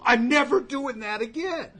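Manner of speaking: hammed-up promise to quit, loud and high; a loud mock "never again"; mock vow. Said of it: "Most people would go".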